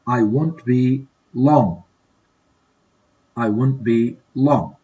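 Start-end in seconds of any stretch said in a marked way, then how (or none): 0.1-1.8 drawn out slowly, word by word; slow model. Shown as a demonstration. Teacher modeling the reply for students, slow. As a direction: stretch "I won't be long" out slowly for learners. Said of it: "Complete these dialogues in a suitable way".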